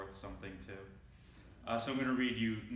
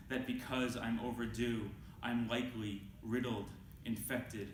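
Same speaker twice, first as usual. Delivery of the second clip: measured, deliberate poem delivery with pauses between phrases; poetry reading. Acted. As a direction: read it as a poem, weighing each line. Reads own poem aloud.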